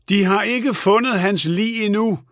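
high, urgent call; mildt råb. A narrator's reading. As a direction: make a last attempt to get through. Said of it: "råbte hun". (råbende, højt toneleje)

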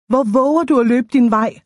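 understated narrator's shout; mild acted shout. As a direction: call it out without a full yell. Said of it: "råbte jeg".

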